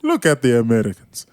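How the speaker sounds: put-on botched Cuban accent that sounds Russian; mock Cuban accent. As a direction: attempt a Cuban accent and land closer to Russian. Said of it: "your Cuban accent sounded like he was from Russia".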